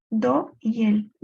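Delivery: slow down and stress "do y el"; linked syllables. Shown as a demonstration. Teacher showing students which syllables merge, slowly. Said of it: "y aquí se juntan".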